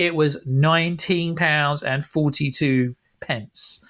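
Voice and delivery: slow, pointedly spelled-out figure; each number laid out slowly and sarcastically; sarcastic read-out. Retold or imitated. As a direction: read the amount back with mock care. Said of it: "I read out to him really sarcastically".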